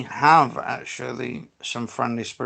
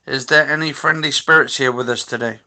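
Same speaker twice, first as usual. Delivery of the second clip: louder, clearly projected question; calling out to spirits; 5 dB louder than usual. Real, not acted. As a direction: address an unseen presence aloud. Calling on spirits at Ouija board.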